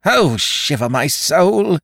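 loud, high, building tirade; crying out in rage. A narrator's reading. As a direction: blind pirate chief's frantic outburst. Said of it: "he cried".

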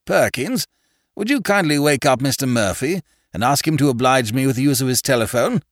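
welcoming host, rising to loud, high-pitched requests; a touch of a fussy, courteous gentleman; lightly voiced courteous host. A narrator's reading. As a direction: usher in a guest, then call out instructions. Narrator voices host welcoming visitor.

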